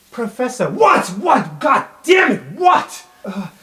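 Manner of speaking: flustered, then bail out; student spooked by the professor; panicked stammer. Acted. Student startled by professor's outburst.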